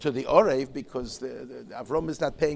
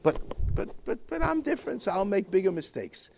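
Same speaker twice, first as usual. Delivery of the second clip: high mock excuse; 6 semitones higher than usual. An imagined excuse, voiced in a story.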